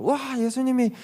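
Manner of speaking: high-pitched gushing awe; amazed exclamation. Acted. Disciples marvel at Jesus shining like light, amazed. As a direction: exclaim in wonder, pitch soaring. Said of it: "막 이렇게 감탄을 했죠".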